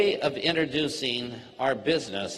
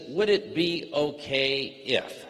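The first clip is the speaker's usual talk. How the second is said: model phrase; slower than usual. Shown as a demonstration. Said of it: "And the phrase is".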